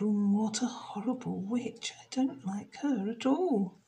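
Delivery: soft, hushed dislike; disgusted thought. Acted. Jenny privately dislikes the witch, hushed. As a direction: mutter it under your breath. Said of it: "Jenny thought".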